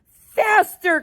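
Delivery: high, loud urging shout; eager cry. Acted. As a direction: egg the lift on. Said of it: "cried Mister Wonka".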